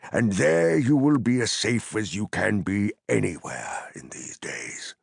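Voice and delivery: whispered reassurance; hushed. Acted. Gandalf whispering comfort to drowsy Pippin, hushed. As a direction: breathe it gently to a sleepy hobbit.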